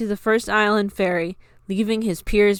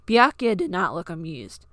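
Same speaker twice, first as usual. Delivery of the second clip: ordinary delivery, nothing marked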